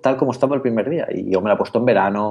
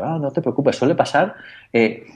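higher, kindly clerk voice; calm the embarrassed customer; a light take on a friendly Apple clerk; reassuring shop assistant; 3 semitones higher than usual. Retold or imitated.

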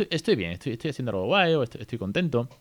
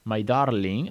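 put-on tender baby talk; 3 semitones higher, much slower than usual. Shown as a demonstration. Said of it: "le da lo mismo".

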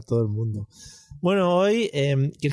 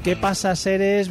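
millennial greeting; 6 semitones higher, slower than usual. Pretend. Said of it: "el saludo así más millennial".

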